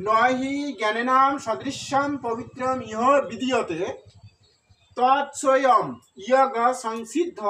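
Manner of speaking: slow, measured Sanskrit verse recitation; drawn-out syllables in careful model pronunciation; correct verse pronunciation. Shown as a demonstration. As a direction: recite it slowly, phrase by phrase, for pupils to follow. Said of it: "সঠিক উচ্চারণটা হবে".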